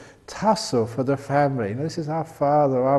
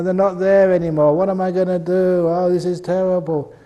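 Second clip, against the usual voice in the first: mock lament; 5 semitones higher, 4 dB louder than usual. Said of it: "look on the negative side".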